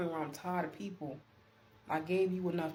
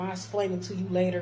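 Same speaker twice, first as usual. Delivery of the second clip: louder, dismissive mock supervisor; demanding; 6 dB louder than usual. Supervisor putting off her worker, demanding. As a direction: put them off firmly, imitating a demanding boss. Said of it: "she was just demanding".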